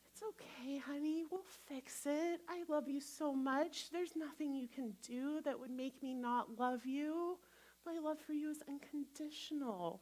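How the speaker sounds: soft, loving murmur; tender reassurance. Retold or imitated. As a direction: pour love into it quietly. Loving parent comforting child.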